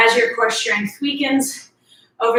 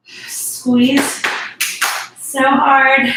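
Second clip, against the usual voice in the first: urgent coaching call; 3 semitones higher, 3 dB louder, much slower than usual. Real, not acted. Coach cueing a hard squeeze.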